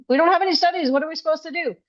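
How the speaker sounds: mocking John. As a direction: parody a clueless host pleading. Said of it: "John was acting like they weren't".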